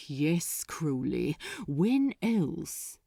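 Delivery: a slightly clipped, impatient answer; mildly tired of being interrupted; a demon lord mildly impatient with a subordinate; touch of impatience. Acted. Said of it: "with a touch of impatience".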